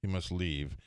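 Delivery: proper English dismissal; English accent. Retold or imitated. English secretary sending a golfer away, proper English accent. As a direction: order him out politely, in an English accent. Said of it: "This guy was English".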